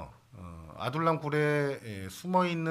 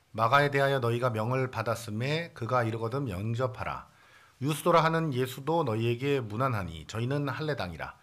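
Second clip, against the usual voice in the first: scripture reading. Acted. Pastor reads Colossians to the congregation, solemn and steady. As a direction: read the verse out to the church.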